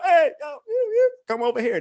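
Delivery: mock catcall from a drop top; calling out to girls. Hollering at girls from car.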